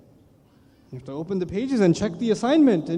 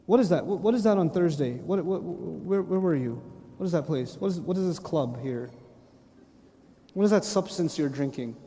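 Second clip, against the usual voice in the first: a hint of a stern questioner, quieter; interrogating angel; 4 semitones lower, 3 dB quieter than usual. Angel questioning a man about his record, mildly stern. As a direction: probe each line of the record. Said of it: "the angel stops you and says".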